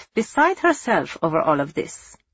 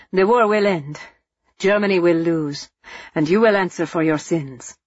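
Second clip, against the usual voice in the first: spitting defiance. Acted. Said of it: "spitting the words through bloody lips".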